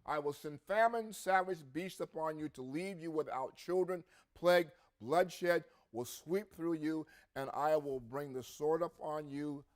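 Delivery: scripture reading. Acted. Preacher reading Ezekiel aloud to congregation, proclaiming with force.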